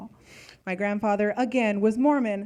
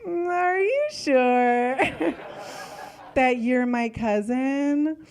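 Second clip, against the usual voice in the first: put-on little kid; 2 semitones higher, slower than usual. Little cousin doubting she's family, slow and puzzled. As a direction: draw it out like a puzzled child.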